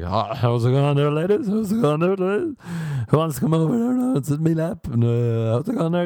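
high, leery Irish pub chat-up; drunk Irish lad. Retold or imitated. Drunk dude chatting up women at the bar, leery Irish. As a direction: lean in like a drunk guy hitting on women. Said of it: "drunk dudes ... are like".

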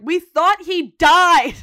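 loud, high, drawn-out mock outcry; shocked shout. Friends react to Kev's news, shocked shout. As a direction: shout it slowly in exaggerated shock.

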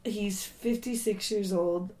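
lost voice, hoarse and slow. Real, not acted. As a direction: push words out through a hoarse throat. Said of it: "So I've lost my voice".

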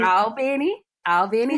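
"Albany" drawn toward All-BENNY, ending on a rise; local Georgia pronunciation. Shown as a demonstration. Teaching co-host the Georgia town's name, All-BENNY pronunciation. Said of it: "that's how I got, like, my weird accent".

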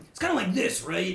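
Starp. Shown as a demonstration. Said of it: "I gotta get back in the voice".

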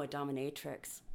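whisper. Real, not acted.

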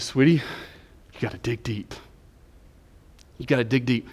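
gentle, measured coaxing; retold fatherly encouragement. Father on the phone to his crying daughter, gently firm.

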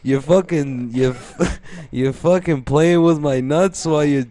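mock-Italian driver's griping; Italian road rage. Italian driver griping at another driver, mock accented anger. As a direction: complain with an exaggerated Italian accent. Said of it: "an Italian guy who's having road rage".

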